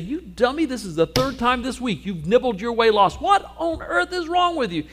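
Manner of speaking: high, loud, hammed-up scolding shout; mock scolding. Preacher mocking a scolding shepherd, high loud shout. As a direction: rant at the dumb sheep in mock outrage. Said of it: "Doesn't scold him".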